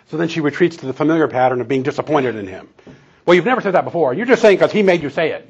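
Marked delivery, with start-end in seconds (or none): 3.3-5.5 higher, a bit louder, lightly mimicking a hurt accusation; mock complaint. Wife rebuffing husband's praise, lightly mimicked accusing whine. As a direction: play the disappointed wife, half-hearted whine.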